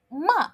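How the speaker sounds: ma falling sharply; fourth tone. Shown as a demonstration. Teacher showing fourth tone, scold. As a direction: drop ma hard downward. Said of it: "And fourth tone".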